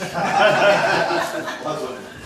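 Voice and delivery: big breathy burst of laughter; real laugh; loud real laugh. Real, not acted. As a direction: crack up at the joke. Flash you" double meaning.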